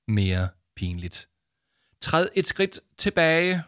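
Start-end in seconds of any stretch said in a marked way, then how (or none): 2.0-3.6 high, slow mock-grave order; mock serious. Jama warning Arthur, mock solemn. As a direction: announce it like a grave mission. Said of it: "med en alvorlig mine".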